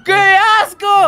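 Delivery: disgusted. Real, not acted. Dirty drain water found.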